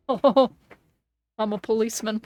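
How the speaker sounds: lightly put-on British copper, quick in places; a hint of a silly bobby; mock policeman voice. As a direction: play a pompous UK policeman. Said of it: "I don't know why I talk like this".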